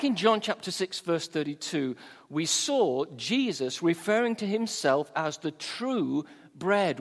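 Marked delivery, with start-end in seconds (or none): 5.4-7.0 "true" drawn out slowly before the noun; stress on true. Shown as a demonstration. Preacher cites Jesus as bread, stress on "true". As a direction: stretch and weight the word "true". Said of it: "emphasis on the word true".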